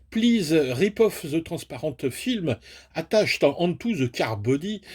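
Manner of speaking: slow, careful English in a strong French accent. Shown as a demonstration. Reading the box warning to viewers, in a thick French accent. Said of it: "Vous aimez mon accent, euh, mon accent anglais?".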